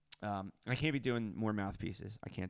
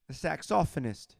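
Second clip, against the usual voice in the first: higher mock-British announcement; pretend British accent; 4 semitones higher than usual. Repeating a player's title, pretend British accent. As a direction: saxophonist as sax-OFF-onist, British style. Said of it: "pretend to make a British accent".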